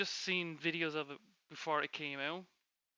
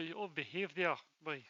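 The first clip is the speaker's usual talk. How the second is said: put-on Scottish accent. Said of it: "Do a Scottish version of him".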